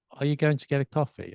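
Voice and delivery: "coffee" stressed, "are you going to" quick and weak; English sentence stress. Shown as a demonstration. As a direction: rush lightly through "are you going to", land on "coffee". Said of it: "words that aren't important are not stress".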